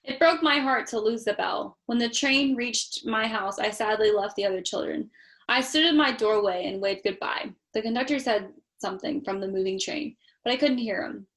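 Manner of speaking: steady storybook reading voice; story narration. A narrator's reading. Parent reading Polar Express to child, storytelling. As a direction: read it like a bedtime story.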